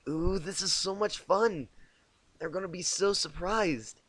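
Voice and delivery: high, bubbly and excited; giggly excitement. A narrator's reading. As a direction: squeal it like a giggling party pony. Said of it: "Pinkie giggled".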